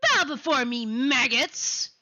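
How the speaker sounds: commanding villain bellow; imperious dark queen; dark lord. Acted.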